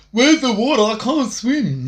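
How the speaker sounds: high voice, slow on can't swim; mock flopping fish. Mocking his rival as a floundering fish, high. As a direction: squeak like a panicking fish. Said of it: "floundering like a fucking flop".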